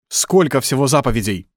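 strict examiner's question; stern question. Acted. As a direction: demand the answer sternly. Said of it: "строго спрашивает Декарт".

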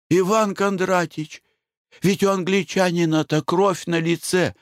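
a hint of a prim wife pointing out; wife remarking. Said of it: "заметила Глафира Семёновна".

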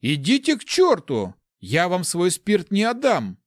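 indignant paladin guarding what is his; bristling refusal. A narrator's reading. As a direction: dig in angrily. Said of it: "набычился паладин".

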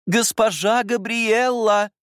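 high, slow, loud drawn-out call. Acted. Governess calling the girl from across the lawn, loud. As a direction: call her name across the garden.

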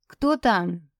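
put-on a thin, trembling old lady's voice; quavering old woman. A narrator's reading. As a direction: ask it like a frail old woman behind the door. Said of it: "спросил дребезжащий голос".

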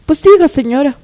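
changed voice. Acted. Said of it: "le ha vuelto a cambiar la voz a Verónica".

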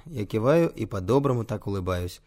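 usual speaking voice

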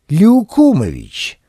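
drawn-out surprised exclamation. Acted. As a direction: blurt the name out in disbelief. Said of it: "удивился градоначальник".

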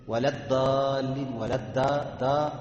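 الضالين with the ض turned into an emphatic د; faulty ولا الضالين, ض as د; dad as dal. Shown as a demonstration. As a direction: say الضالين with a thick د instead of ض. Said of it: "عملت الضاد دال".

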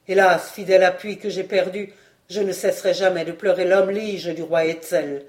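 plainte douloureuse, plus forte; un seigneur qui pleure son fidèle ami; lamentation. Acted. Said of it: "Il se prit à pleurer". (lamentation forte et douloureuse)

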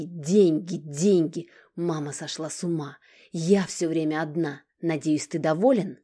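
loud, pitiless tirade; merciless fury. Acted. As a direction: tear into him without mercy. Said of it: "Алина была беспощадна".

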